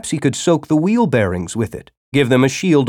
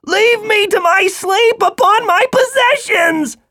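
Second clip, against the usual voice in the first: pained worm. A narrator's reading. Wounded worm pleads.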